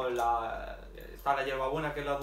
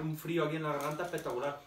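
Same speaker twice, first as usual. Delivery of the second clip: talking around hookah mouthpiece; speaking with pipe at lips; faster than usual. Real, not acted. Seen 0: White-shirt man holds purple hookah mouthpiece at lips throughout.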